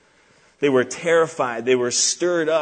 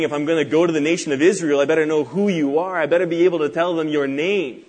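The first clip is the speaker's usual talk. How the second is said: louder, pressing Moses voice; insistent pleading; 3 semitones higher, 5 dB louder, faster than usual. Retold or imitated. Preacher voicing Moses asking God's name, insistent. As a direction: press the point with raised volume.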